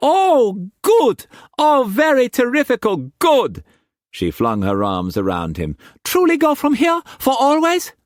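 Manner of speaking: high, loud delighted squeal. A narrator's reading. Mei Mei thrilled to leave the house, high and loud. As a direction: burst with joy, high and loud.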